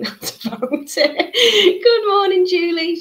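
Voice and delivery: real laugh spilling into a loud, high greeting; laughing out the good morning. Real, not acted. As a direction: giggle through the hello, bursting up. Laughing through greeting a viewer.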